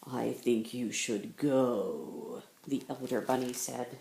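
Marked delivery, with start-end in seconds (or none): 0.1-2.4 much lower, softer, slow; cold dismissal. Acted. Elder bunny coldly sending Bunny Bear away. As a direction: send him off coldly.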